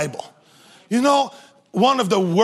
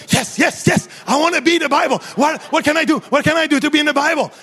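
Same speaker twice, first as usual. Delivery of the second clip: fast, excited, a touch higher; eager ram; 4 semitones higher, much faster than usual. Retold or imitated. Ram begging God to be in the Bible, fast and eager. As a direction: blurt it out, dying to be picked. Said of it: "the ram says".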